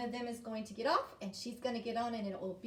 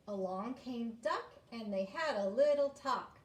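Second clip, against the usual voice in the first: slow read-aloud of a poem; read-through. Shown as a demonstration. Teacher first reads the whole poem, slow read-aloud. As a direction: read it through at an easy pace. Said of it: "I'm gonna read the whole thing first".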